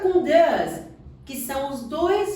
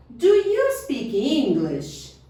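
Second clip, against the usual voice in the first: slow model question; slower than usual. Shown as a demonstration. Teacher models question slowly.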